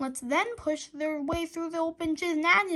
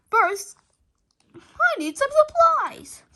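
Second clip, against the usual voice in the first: much higher, loud, slow proclamation; heroic declaration; 10 semitones higher, 7 dB louder, slower than usual. A narrator's reading. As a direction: announce it like a superhero. Hero declares grandly.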